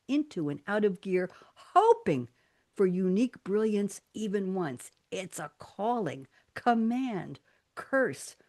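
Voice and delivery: slow poem recital, each word set apart; emphasised poem reading. Acted. Host reading own acrostic to fellow creatives, word by word. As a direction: lean in on every word, with pauses. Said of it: "I'll try to lean in as I'm emphasizing each word".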